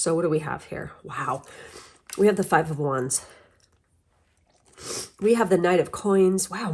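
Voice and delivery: talking around a throat lozenge; words round a cough drop; cough drop in mouth. Real, not acted. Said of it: "I have a cough drop in my mouth".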